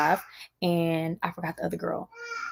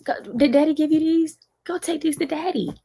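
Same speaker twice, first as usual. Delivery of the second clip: high, syrupy fake-nice voice; sing-song like a nosy fake friend; mocking fake sweetness; 9 semitones higher than usual. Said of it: "They come and they say".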